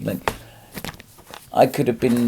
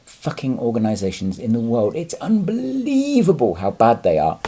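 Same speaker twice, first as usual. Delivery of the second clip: getting angry. Real, not acted. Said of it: "I'm gonna get angry now".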